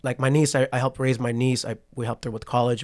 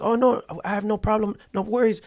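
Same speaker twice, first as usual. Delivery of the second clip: put-on higher-pitched Asian-accented voice, reassuring; imitating an Asian accent; 9 semitones higher than usual. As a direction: mimic the Asian driver's accent, light and easy. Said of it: "it's just the way I'm telling the story".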